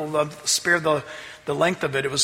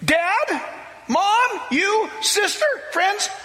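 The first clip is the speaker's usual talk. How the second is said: fervent calling out; 11 semitones higher than usual. Retold or imitated. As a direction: cry out to the whole family, pleading, slowly at first. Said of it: "He said".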